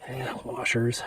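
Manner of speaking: out of breath, panting between words; winded from hard wrenching; gasping for air. Real, not acted. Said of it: "I'm out of breath".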